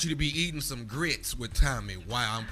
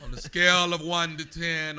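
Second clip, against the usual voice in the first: laughing while asking; giggling through words; 3 dB louder than usual. Real, not acted. Host laughing.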